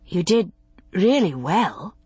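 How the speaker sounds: mild praise, drawn out at the end; understated encouragement. A narrator's reading. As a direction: gently reassure him, taking time on the last words. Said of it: "she said mildly".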